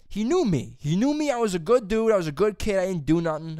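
high, loud protesting insistence; emphatic insistence. Real, not acted. Storyteller insisting he was a good kid, emphatic. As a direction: pitch jumps up, pleading his case.

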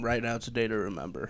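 croaky whisper after hot sauce. Real, not acted. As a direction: rasp it out, throat burning. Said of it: "that came out a little croaky".

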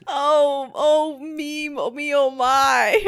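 mock Southern belle. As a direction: imitate a fluttery Southern belle. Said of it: "He's just a Southern belle all of a sudden".

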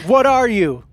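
high, shrieking panic; terrified scream. Acted. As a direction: scream it out in terror. Hobgoblin screams in fear.

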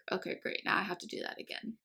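very soft, nearly whispered resignation; retold hushed, let-down grumble; deflated aside. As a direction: mutter it quickly under your breath. Retold deflated reaction to bad news.

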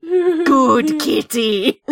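slow, drawn-out butler imitation; big butler guard. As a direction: praise it slowly like a big cartoon guard. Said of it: "big butler guard. When he's like".

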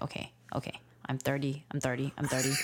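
low-key self-soothing mutter; calming himself. Retold or imitated. Dad retelling calming himself beside his child, calm self-talk. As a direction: talk yourself down, repeating it like a mantra. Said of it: "calm myself down".

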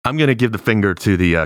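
normal talking voice

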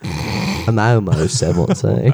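slow, dragged-out put-on voice; awful character voice. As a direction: stretch it out badly. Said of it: "It sounds awful".

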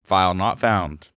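slow giggling computer voice; laughing robot voice. Pretend. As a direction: play a broken computer, laughing. Continuing computer joke.

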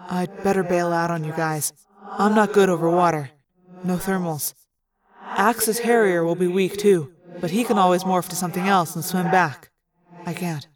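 low-key bowing out, lightly in character; lightly voiced Tobias, resigned. Tobias tells the group he must turn back, resigned.

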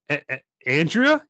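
frightened stammer on the name; stuttering. Acted. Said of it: "you stutter".

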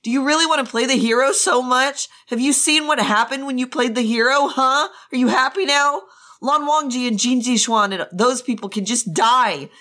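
high-pitched, grief-driven tirade; losing his mind. Acted. Jiang Cheng blaming Wei Wuxian for the deaths, losing his mind. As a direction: build from accusation to frantic high outburst. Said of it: "Jiang Cheng had lost his mind".

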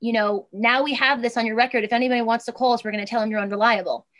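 loud, dismissive employer voice; curt boss. Retold or imitated. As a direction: brush them off loudly. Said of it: "They're gonna say".

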